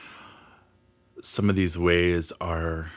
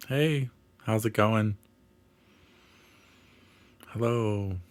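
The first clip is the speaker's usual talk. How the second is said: put-on slightly higher, casual hello to an old friend; friendly greeting; 4 semitones higher than usual. Healer acting out saying hello to the earth, friendly greeting. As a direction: greet them lightly, like someone you know well. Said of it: "Just like an old friend".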